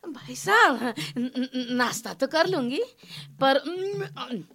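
halting, coy request; hesitant hinting. Acted. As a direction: stall and hedge before asking a favour. Maid shyly angles for tea. (झिझकते हुए, अटक-अटककर)

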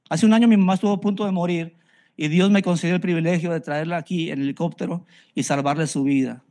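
ordinary talk

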